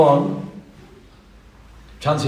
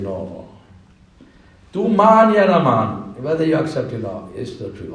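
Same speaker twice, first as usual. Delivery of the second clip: gentle insistence; 2 semitones lower than usual. Acted. Big fish gently insists.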